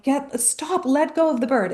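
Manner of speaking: half-shouted order to drop the bird; frantic command. Retold or imitated. Owner yelling at her cat to drop the bird, frantic. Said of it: "And I'm, like, freaking out".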